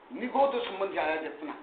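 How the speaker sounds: normal talking voice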